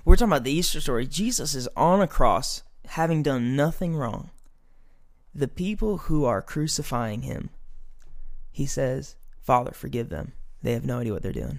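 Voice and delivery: starting to preach, slowed and deliberate; preacher voice. Acted. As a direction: ease into the sermon, weighing each word. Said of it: "I'll get into my preacher voice".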